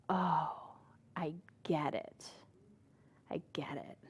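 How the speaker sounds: soft low whisper of wonder; awed realisation. Retold or imitated. Someone realises the truth of life, hushed awed whisper. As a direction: breathe it out as if it just dawned.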